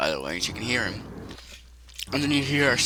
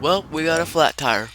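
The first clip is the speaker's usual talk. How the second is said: Susan annoyed; 4 semitones higher, 4 dB louder than usual. Acted. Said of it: "She says".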